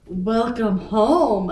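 slow, lightly posh British butler; a hint of a posh British welcome; posh British greeting, slow and measured; posh British accent. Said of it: "a man says in a posh British accent".

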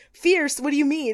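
high puzzled repeat of fierce; mock baffled photographer; baffled echo. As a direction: throw the word back in disbelief. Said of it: "he's like".

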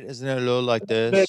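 put-on monotone Icelandic accent; flat, even Icelandic accent. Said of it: "it's a little monotone".

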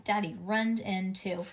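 ordinary delivery

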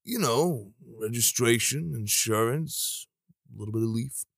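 hesitant mock confession, softening toward the end; imitated bashful admission; sheepish. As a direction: trail it out sheepishly with rising items. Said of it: "gets a little sheepish and says".

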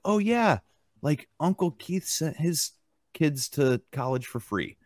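mock-casual relative passing on family news; imitating nonchalance. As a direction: toss it off lightly, high "oh yeah" dropping away. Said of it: "it was mentioned so nonchalantly".

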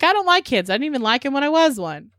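put-on high, snippy old curmudgeon scoff; a mocking take on a grouchy aunt refusing to watch the kids; grumpy aunt.

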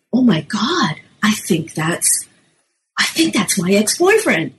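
put-on young storyteller. Shown as a demonstration. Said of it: "stories that go something like this".

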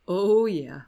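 drawn-out, swelling mock "oh yeah"; imitated repeated moaning. Host imitating man eating spicy peppers, drawn-out mock moan. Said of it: "he just keeps saying".

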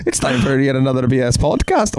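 high, put-on Scottish lilt; mock Scottish accent, lightly hammed; a playful Scottish brogue; Scottish accent impression. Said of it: "that's not English".

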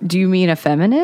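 calm, even question. Retold or imitated. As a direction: ask it calmly, without any edge. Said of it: "I'm saying it as calmly".

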